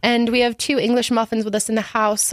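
put-on British tea-party hostess; hammed-up British accent. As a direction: announce it in a playful British accent. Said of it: "we are being very British".

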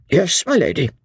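bow and serve, hiding surprise; innkeeper. Acted. Innkeeper Jellyband answers her ladyship, deferential.

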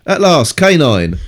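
building up to a big reveal; dramatic reveal. Acted. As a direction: announce it like a showman.

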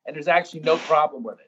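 usual speaking voice

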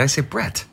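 Brett with a clear short e; correct Brett. Shown as a demonstration. Husband insists on how he says his name, Brett. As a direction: say Brett, crisp and exact. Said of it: "I don't say it like that".

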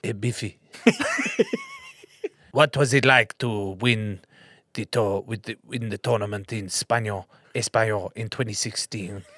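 hammed-up Spanish interviewer accent. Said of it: "a Spanish accent".

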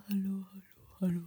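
fading whispered echo of hallo; canyon echo. Pretend. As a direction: let hallo fade away like an echo.

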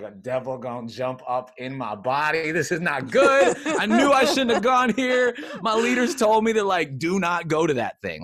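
rising into a high, loud panicked rant; mock panic. Telling Kelly he thought a devil would jump in him, mock panic. Acts out his panic at shrieking.

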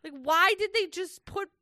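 high, exasperated question. Real, not acted. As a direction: ask in baffled disbelief. Exasperated over paella.

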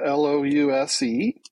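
letter by letter, each one clear; spelling it out. Shown as a demonstration. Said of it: "Can you spell lousewort?".

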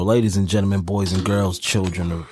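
ringmaster. Acted. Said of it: "let me get my little intro".

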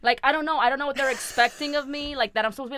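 ordinary talk, nothing marked

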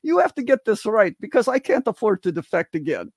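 imitating his Russian friend's accent, lightly; attempted Russian accent. Retelling a Russian defector's quip in a light Russian accent. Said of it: "I can't do his good Russian accent".

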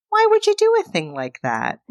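sweet and unbothered after being stabbed; calm robotic Bobby. Retold or imitated. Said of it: "just calmly removes the knife".

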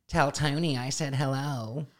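lightly nasal little puppet voice; a hint of a small nasal puppet. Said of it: "in the little nasal voice that he uses".

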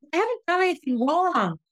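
high-pitched pleading self-defense; re-enacting her own distressed objection; retold desperate protest. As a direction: fight back in a high, upset voice. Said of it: "And I just fought for myself".

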